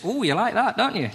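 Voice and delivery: high, camp teasing question; stupid bedroom line. Acted. Beginner during sex, high silly teasing. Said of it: "saying something as stupid as".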